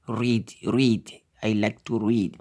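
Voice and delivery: "read" said with EA as a long ee. Shown as a demonstration. Teacher showing how EA is read, long ee in "read". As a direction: model "read" with the EA sounded "ee". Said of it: "Le E et A se lit I".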